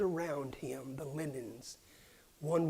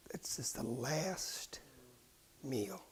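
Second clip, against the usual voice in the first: solemn whisper; 4 semitones lower, 11 dB quieter than usual. Acted. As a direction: let it fall to a hush. Solemn question of the last meal.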